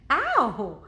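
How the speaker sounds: loud startled yelp of pain; sudden ow. Acted. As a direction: yelp as if struck. Cow tail whips Jack's face.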